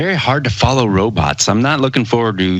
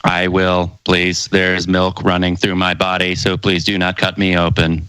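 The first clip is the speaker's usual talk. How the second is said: robot voice; 3 semitones lower than usual. Pretend. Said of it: "you must talk like this".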